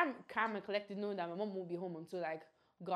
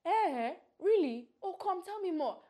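nosy mom; 8 semitones higher, 4 dB louder, slower than usual. Retold or imitated. Mom eager for gossip.

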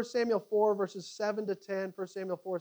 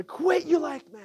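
"Quit you like men" called out high and louder, like a battle cry; rallying cry; 8 semitones higher, 5 dB louder than usual. Acted. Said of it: "what was the rallying cry".

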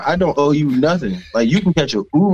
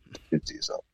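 whispered taunt; 15 dB quieter than usual. Pretend. Mocking the proposer, whispered You did to yourself.

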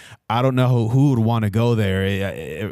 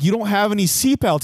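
exasperated protest; 11 semitones higher than usual. Retold or imitated. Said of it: "I'm like".

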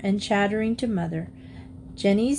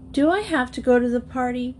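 higher-pitched protesting question; outburst; 4 semitones higher than usual. A narrator's reading. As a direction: burst out in protest. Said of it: "Geneva burst out".

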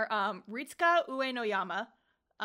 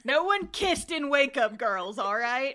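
louder, laughing protest; 3 semitones higher, 7 dB louder than usual. Real, not acted.

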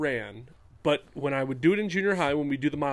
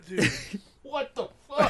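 hit with smelling salts; 10 semitones higher than usual. Real, not acted.

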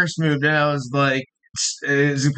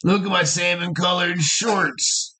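mock lax bro; 3 semitones higher than usual. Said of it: "the Lax Bros".

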